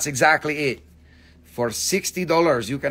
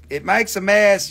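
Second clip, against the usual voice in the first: whiny customer; 6 semitones higher, 6 dB louder than usual. Retold or imitated. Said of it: "you're like".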